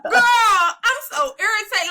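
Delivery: drawn-out laughing, slow; laughing whine. Real, not acted. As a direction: whine it slowly through laughter. Laughing rant about her period.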